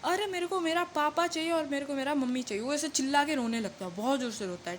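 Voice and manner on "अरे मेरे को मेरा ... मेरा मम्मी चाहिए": put-on crying child's wail. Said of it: "वो और चिल्ला के बोलता है".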